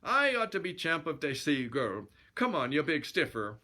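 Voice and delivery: comic Swedish challenger; Muppet-style Swedish bluster; Swedish chef accent. Acted. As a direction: goad him in a mock Swedish accent. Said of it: "I sound more like the Swedish chef".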